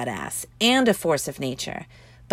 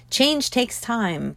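slow, drawn-out mock platitude; 5 semitones higher, much slower than usual. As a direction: drag out the cliché with light mockery.

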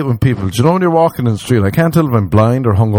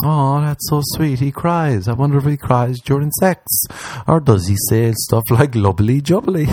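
mock swooning woman; 5 semitones higher than usual. Mocking swooning women.

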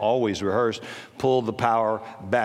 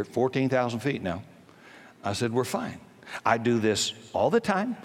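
calm reassurance. Retold or imitated. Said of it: "I never raised my voice".

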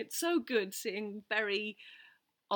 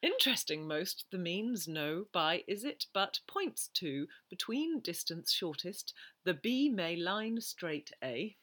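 slower second reading, reversed word order; backwards speech. Shown as a demonstration. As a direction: read it backwards again, more slowly. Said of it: "Can I hear it again".

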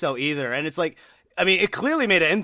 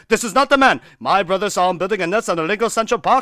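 excited bystander; 6 semitones higher, 4 dB louder, faster than usual. Retold or imitated. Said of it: "people are like".

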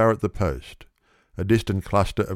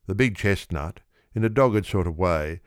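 usual speaking voice

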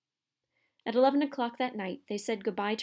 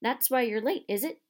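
frowning; 4 semitones higher, 4 dB louder than usual. Acted. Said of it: "frowning at Filch".

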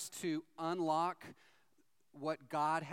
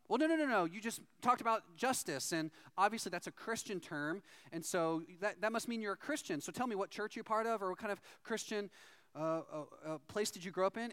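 eager insistence; 4 semitones higher than usual. Retold or imitated. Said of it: "And he's like".

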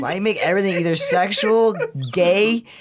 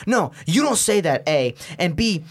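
higher-pitched imitation of telling someone off; mock angry scolding; 4 semitones higher than usual. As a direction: act out an indignant classmate, lightly heated. Voices angry classmate scolding him.

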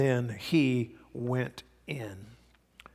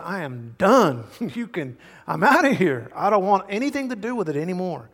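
fed-up outburst, higher and louder in places; emphatic declaration; 5 semitones higher, 4 dB louder than usual. Retold or imitated. Peter leaving bad company behind, acted emphatic declaration. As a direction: retell a man declaring he is finished.

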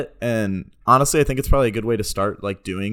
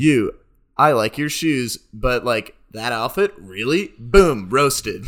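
backhanded compliment; 4 dB louder, slower than usual. Pretend. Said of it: "backhanded compliments".

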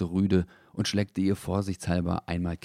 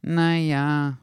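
much higher, fussy hedging; fussy correction; 8 semitones higher, 6 dB louder than usual. A narrator's reading. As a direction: correct yourself awkwardly. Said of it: "berichtigte Dackel sich nun etwas umständlich". (umständlich, viel höher)

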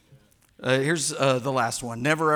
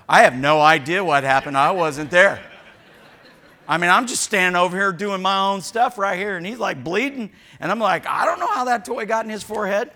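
higher, louder innocent denial; mock innocent kid; 6 semitones higher, 11 dB louder than usual. Pastor voicing kid denying the injury, high and loud. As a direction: play the innocent bystander child.

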